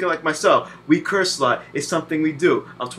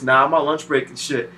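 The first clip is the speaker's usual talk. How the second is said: lower, lazy mock reply; lazy character voice; 4 semitones lower than usual. Character answers the frantic player, lazy mock voice. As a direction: play the character shrugging off the order. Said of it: "You guys like this".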